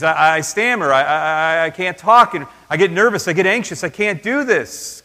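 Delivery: lightly acted anxious stammer. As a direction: stumble over the words like a nervous man. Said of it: "I've got speech difficulties".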